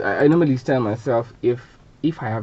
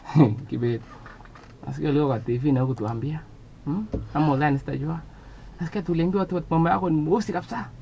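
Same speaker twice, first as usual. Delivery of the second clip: mother's voice starting level, climbing much higher by the end; complaining mother; 4 semitones higher, 3 dB quieter than usual. Acted. Mother calling son about his TV poem, mildly indignant, climbing. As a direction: play Mum's rising indignation over the phone. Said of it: "my mother called and said".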